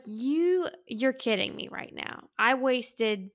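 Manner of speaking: exasperated, indignant retelling; incredulous, emphatic complaint; mad disbelief. Retold or imitated. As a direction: replay your annoyance at being had. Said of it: "I was mad. I was like".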